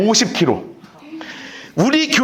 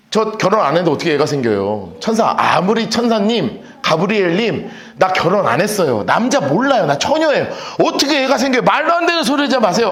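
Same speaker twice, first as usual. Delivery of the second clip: doubting Mary; 2 semitones lower than usual. Acted. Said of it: "하고 의심을 하니까요".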